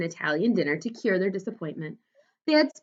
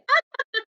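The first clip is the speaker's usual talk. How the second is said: uncontrollable laughter. A narrator's reading. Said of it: "She began laughing uncontrollably".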